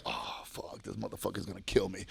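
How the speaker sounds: hushed, low aside to yourself; dreading. Retold or imitated. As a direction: act out sinking dread under your breath. Retelling dread of his father.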